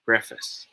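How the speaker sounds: preface as PREF-iss; correct pronunciation. Shown as a demonstration. Tutor has students repeat with him, correct pronunciation. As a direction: model preface with short e and weak ending. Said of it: "Say it with me".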